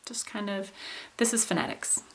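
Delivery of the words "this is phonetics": "this is phonetics" as an ordinary falling statement; neutral, unemotional drop on "phonetics"; falling contour. Shown as a demonstration. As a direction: let "phonetics" simply fall to a close. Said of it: "pretty ordinary following con-, falling contour".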